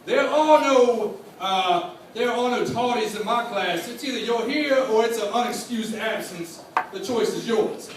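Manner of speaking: slow, drawn-out lay-down-the-law; stern shop teacher. Retold or imitated. Mister Pope lecturing the class on tardies, sternly drawn out. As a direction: lay down the rules like a strict old teacher. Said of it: "He would tell you".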